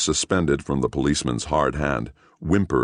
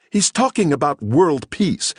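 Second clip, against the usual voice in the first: put-on fussy older woman; 12 semitones higher, 4 dB louder than usual. Indignant woman explaining.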